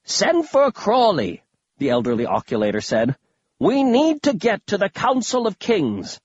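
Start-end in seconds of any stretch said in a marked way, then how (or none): 0.0-1.4 rally the troops as a dotty grandpa; excited old grandpa. Acted. Voices eccentric grandfather. 3.6-6.2 put-on higher, theatrical old man voice; eccentric old grandpa.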